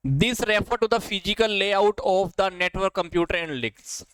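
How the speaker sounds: every word drawn out slowly, read from the paper; slow dictation. Shown as a demonstration. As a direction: read the question slowly so students can follow. Reading a quiz question aloud. (धीरे-धीरे पढ़ा गया सवाल)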